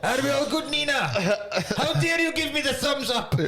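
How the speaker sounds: hammed-up ballet director with a rough French accent; indignant director in a shaky attempt at French; Vincent Cassell. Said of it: "I think I can either".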